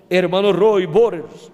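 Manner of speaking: urgent call with the pitch lifted, only a mild mock yell; retold shouting. Preacher in his dream calling out for brother Roy, mild mock yell. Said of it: "Y yo estaba gritando entonces".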